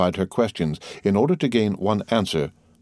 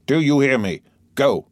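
put-on high, forceful order to a child; harsh command; 5 semitones higher, 3 dB louder than usual. A narrator's reading. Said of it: "so harshly that the child started up".

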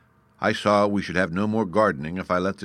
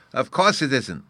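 put-on higher, childlike condescension; pitying, condescending; 6 semitones higher, 4 dB louder than usual. A narrator's reading. Bruno answers an ignorant grown-up, mildly pitying. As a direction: pity the grown-up's ignorance in a small boy's voice. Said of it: "as if he rather pitied my ignorance".

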